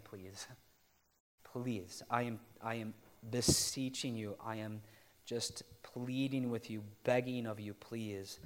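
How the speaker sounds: heartfelt, acted plea; imagined apostle earnestly beseeching; earnest pleading. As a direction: beg them gently, drawing out the key words. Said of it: "He's pleading. A-, and you can almost hear".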